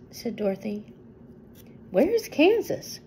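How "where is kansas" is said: higher, slower, surprised question; man's mild surprise. A narrator's reading. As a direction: ask as if never heard of it. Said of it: "asked the man in surprise".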